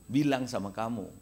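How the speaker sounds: ordinary talk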